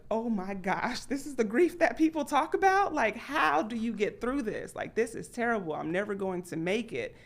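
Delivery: high, pleading, overwhelmed by grief; a mild echo of helpless panic; imitating her grieving younger self; overwhelmed despair. Herself voiced in first grief.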